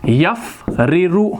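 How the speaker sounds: यफ़रिरु stretched out slowly, syllable by syllable; slow dictation. Shown as a demonstration. Teacher dictating the verb to students, slow and drawn out. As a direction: draw out यफ़रिरु so students can write it. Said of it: "तो हम यहाँ पर लिखेंगे".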